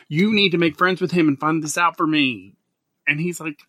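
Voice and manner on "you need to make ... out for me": higher, eager urging; pleading demand. Retold or imitated. Host urging his Melbourne friend, higher and eager. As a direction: push your friend to do it. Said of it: "I go".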